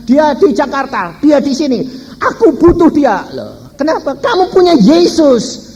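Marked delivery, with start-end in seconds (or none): 2.2-5.7 high, loud pleading quote; a desperate woman's mock plea; pleading church member. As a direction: beg for help as a desperate mother. Church member begging the pastor.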